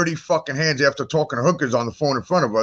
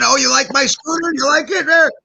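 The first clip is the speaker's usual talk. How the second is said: smug baker voice; 9 semitones higher, 3 dB louder than usual. Retold or imitated. Voicing the baker on scooter.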